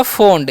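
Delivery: "फोंड" with ओ and a half न before ड; teacher's model of "फोंड"; demonstrated pronunciation. Shown as a demonstration. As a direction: blend फ, ओ, न, ड into "फोंड". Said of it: "और एन का आधा ना".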